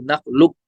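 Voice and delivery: नखलुक very slow, joined; slow reading. Shown as a demonstration. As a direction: read नखलुक slowly as one word. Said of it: "लेकिन जब पढ़ेंगे फिर". (धीमी पढ़ाई)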